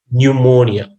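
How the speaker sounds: pneumonia with "new" as first syllable; pronunciation demo. Shown as a demonstration. Teacher shows how pneumonia is pronounced, clear rounded "new" sound. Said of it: "So it's pronounced".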